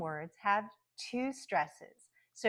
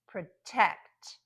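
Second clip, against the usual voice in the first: Protect with a reduced first syllable and strong TECT; careful model of Protect, stressed on the second syllable; last-syllable stress; 5 dB louder than usual. Shown as a demonstration. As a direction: hit the end of Protect, schwa in the first syllable. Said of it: "words where the last syllable is".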